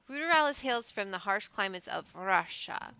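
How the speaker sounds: put-on a light, half-hearted Russian accent; barely-there Russian accent on the narration; mock Russian accent. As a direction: read it like a hammed-up Russian. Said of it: "I'm sorry for that accent".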